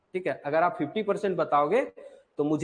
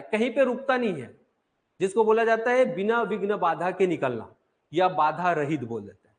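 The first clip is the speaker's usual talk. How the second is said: normal talking voice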